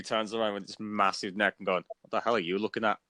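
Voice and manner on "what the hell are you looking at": gruff Scottish monster voice; broad Scottish accent. Retold or imitated. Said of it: "his very heavy Scottish accent".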